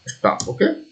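ordinary talk, nothing marked

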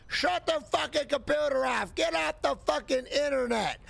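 hammed-up chain-smoking mother yelling at son; nagging mom. Scolding her son Billy off the computer, hammed-up mom voice. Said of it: "their mom is like".

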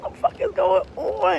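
high, softened baffled cry; retold bewilderment. Speaker recalling the weird moment with partner, high bewildered voice. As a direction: ask it high, in helpless mock confusion. Retelling her bewilderment in bed.

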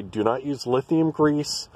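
slow, with "not" pressed firmly; stress on NOT. Real, not acted. To viewers warning off lithium grease, slow and firm on "not". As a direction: slowly insist on "not".

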